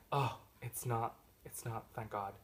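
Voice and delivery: trailing off, relieved; mock sigh of relief in the words; acted relief. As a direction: let it sink down in relief. Acted relief after false climax.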